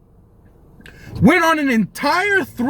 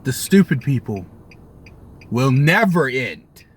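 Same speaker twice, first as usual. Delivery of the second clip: doom voice; 11 semitones lower than usual. Acted. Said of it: "weary closing lament".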